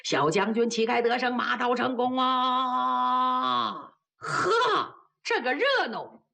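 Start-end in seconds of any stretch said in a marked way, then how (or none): 0.0-3.9 drawn-out cheer. Acted. 阵前欢呼.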